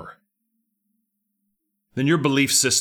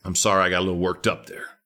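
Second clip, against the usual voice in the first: winded after preaching; 5 semitones lower, 3 dB quieter than usual. Real, not acted. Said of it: "My heart's beating a little fast".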